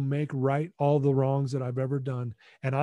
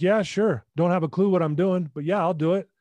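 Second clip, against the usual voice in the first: a touch of higher, louder eagerness; eager yes; 3 semitones higher, 4 dB louder than usual. Retold or imitated. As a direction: jump at it, half-laughing at yourself. Eager yes to parents' request.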